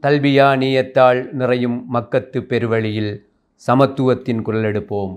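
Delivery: measured, ringing verse recitation; poetic declamation. Acted. Host opening a Hajj poetry gathering, poetic declamation. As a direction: declaim it phrase by phrase with pauses.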